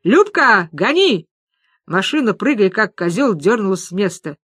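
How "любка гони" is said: shouted command to drive, loud and high. A narrator's reading. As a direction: yell at the driver to floor it. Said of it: "закричала". (громко, срываясь на крик)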